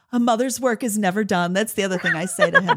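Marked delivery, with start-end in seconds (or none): 0.1-1.5 dramatic martyr. Retold or imitated. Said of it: "like, real dramatic".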